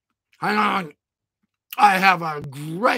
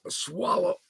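normal talking voice

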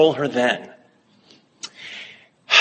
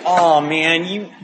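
high, complaining whine; whiny voice; 5 semitones higher than usual. Retold or imitated. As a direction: whine it out like a sulky victim. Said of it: "I put on my whiny voice".

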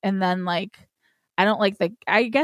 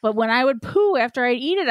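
ordinary talk, nothing marked

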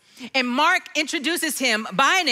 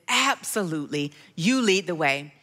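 calm Jesus voice; 7 semitones lower than usual. Retold or imitated. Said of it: "in all of his awesomeness".

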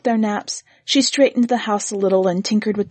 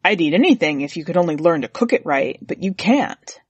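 lightly voiced grumbling husband; 3 semitones lower than usual. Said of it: "He would say".

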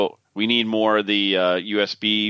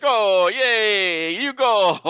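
mocking machine voice; 8 semitones higher, 3 dB louder, much slower than usual. Mimicking the monkey testing machine.

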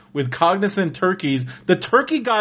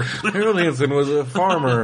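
mock superhero narrator; 2 semitones lower than usual. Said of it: "mild-mannered T V reporter".

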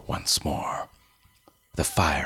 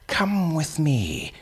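put-on old man voice; 12 semitones higher than usual.

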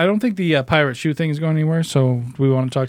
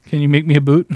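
louder Canadian pirate, breaking into laughter; 7 dB louder than usual. Acted. Pirate asks cobbler for boot, amused Canadian accent. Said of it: "loving this Canadian pirate, so continue".

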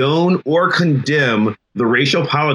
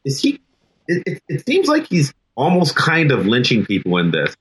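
timid student; 2 semitones higher than usual. Retold or imitated. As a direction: voice a confused freshman tentatively venturing an idea. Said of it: "one of them will very timidly say".

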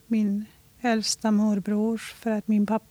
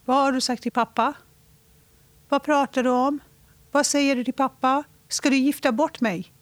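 raised voice; 4 semitones higher, faster than usual. Retold or imitated. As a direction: confront mother with a raised voice. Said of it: "Bara höjer rösten". (höjd röst, upprörd)

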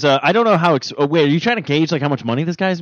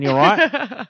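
put-on cockney accent; 6 semitones higher than usual. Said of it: "you gotta be very vulgar when you do it".

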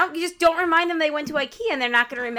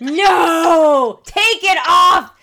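crying out in protest, louder; shouting; 5 semitones higher, 10 dB louder, much slower than usual. Real, not acted. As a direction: yell it, begging them to stop. Cohost stops the impression.

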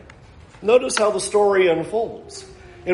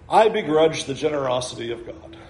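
quick, lower, half-laughing admission; mock confession; 5 semitones lower, faster than usual. Shown as a demonstration. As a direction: say it as an absurd thing nobody admits, "I begrudge the generosity of God" with a laugh. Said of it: "we ever say".

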